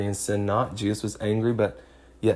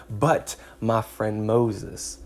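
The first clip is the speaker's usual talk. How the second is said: tender address; much slower than usual. Real, not acted.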